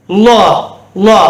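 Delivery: லா as a rounded 'lo', Arabic Zaa; thick, rounded vowel in லா; tongue-to-roof heavy sound. Shown as a demonstration. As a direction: stick the tongue up for லா. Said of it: "நாக்கு போய் மேல ஒட்டிக்கணும்".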